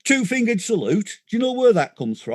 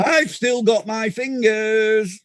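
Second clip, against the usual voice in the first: mock boast; 2 semitones higher, slower than usual. Joke about two-fingered salute.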